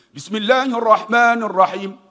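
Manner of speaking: loud, slow reading of "Alhamdu"; Quran recitation. Shown as a demonstration. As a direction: recite as in prayer. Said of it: "Kenapa alhamdu?". (bacaan Quran yang lantang)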